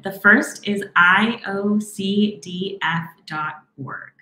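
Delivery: slow, spaced-out spelling of letters. Real, not acted. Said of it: "I'm gonna slow down a little bit".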